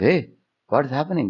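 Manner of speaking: a guru jolted awake by tears; shocked guru. Retold or imitated. Guru startled by the crying boy, mildly shocked. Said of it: "The Guru was shocked".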